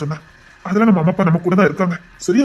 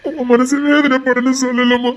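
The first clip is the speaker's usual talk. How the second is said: slow, higher voice, crying; tearful apology; 5 semitones higher, slower than usual. Acted. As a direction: plead gently through tears. Brother apologising in tears. (அழுகையுடன் மன்னிப்பு)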